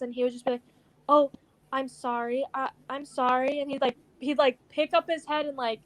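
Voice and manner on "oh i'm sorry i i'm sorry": insecure apology. Retold or imitated. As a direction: retell a timid sorry, lifting the ends like questions. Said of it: "like, insecure".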